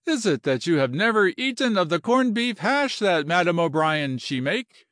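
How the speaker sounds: high, earnest appeal; feeling and final. Acted. General praises madame's cooking to Kelly, feelingly. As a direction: ask it with heartfelt wonder. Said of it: "said the general feelingly and finally".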